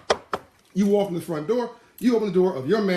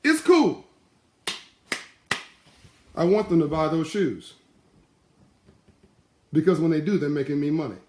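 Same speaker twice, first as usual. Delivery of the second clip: calm sly Derek; 3 dB louder than usual. Retold or imitated. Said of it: "And Derek says".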